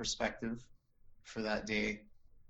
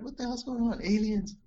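high, loud excited shout; imitating a stunned onlooker shouting; mock crowd yell; 12 semitones higher, 7 dB louder than usual. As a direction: yell it like a bystander seeing aliens.

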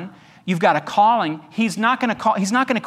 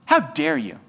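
much higher, indignant "how dare you"; mock outrage; 9 semitones higher than usual. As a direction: fling it back like a scandalised churchgoer. Mocking the offended believer.

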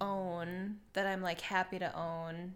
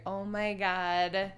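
retold dismay; slower than usual. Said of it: "I was just like".

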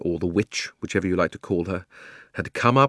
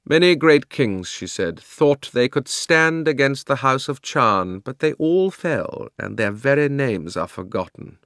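contemptuous; 4 semitones higher, slower than usual. Acted. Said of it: "contemptuous smile".

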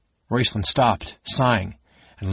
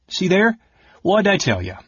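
triumphant; 8 semitones higher, 3 dB louder than usual. Acted. Caramon spots the trail.

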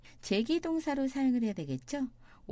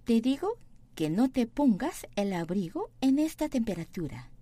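very slow Spanish, stress on "digo"; slow model reading; 3 dB louder, much slower than usual. Shown as a demonstration. Teacher reading slowly for students. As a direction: spell it out slowly. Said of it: "teacher models slowly".

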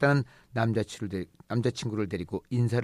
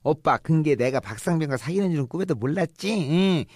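higher, louder gloating tease; teasing sister; 5 semitones higher, 3 dB louder than usual. Acted. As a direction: rub it in gleefully.

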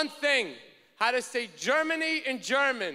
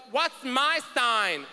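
friend's slow demand; slower than usual. Retold or imitated. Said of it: "her friend turns to me and goes".

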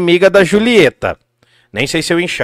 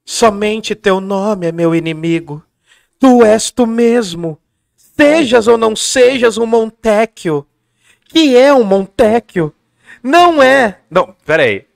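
slow, lightly raised theatrical Juliet; drawn-out stage declaiming, mildly voiced; Juliet reading; 3 semitones higher, slower than usual. Juliet musing on Romeo's name, slow and theatrical. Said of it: "Aí a Julieta assim".

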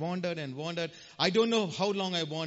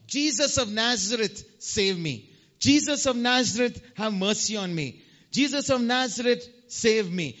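mock shout; 3 semitones higher, 3 dB louder than usual. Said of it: "he started shouting out".

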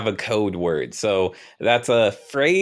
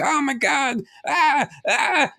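high, excited oh my God; mock amazed gasp; 14 semitones higher, slower than usual. Shown as a demonstration. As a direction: gasp at something new. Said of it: "You can be like".

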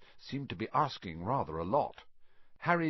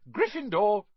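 loud shout with a rising end; hat finally shouting; 11 semitones higher, 7 dB louder than usual. Acted. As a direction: burst out the verdict at last. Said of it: "When it finally shouted".

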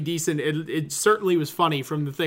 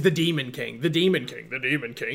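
mocking repetition; 4 semitones lower than usual. Real, not acted. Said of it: "such this overdone trope".

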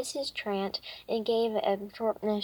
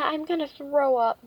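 raised, louder and higher; said loudly; 5 semitones higher, 5 dB louder than usual. A narrator's reading. Ivy warning Missus Trant she'll throw up, loudly. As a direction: announce it loudly to the neighbor. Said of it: "Ivy said loudly".

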